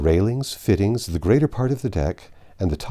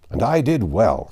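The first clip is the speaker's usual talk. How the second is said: a touch louder, mock cry of triumph; mild cry; 3 semitones higher, 6 dB louder than usual. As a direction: call it out, lightly hammed. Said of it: "cried Andrew Speedy".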